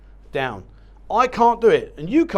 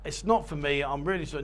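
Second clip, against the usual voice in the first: calm apology; 2 semitones lower, 3 dB quieter than usual. Shown as a demonstration. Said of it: "just remain calm and just say".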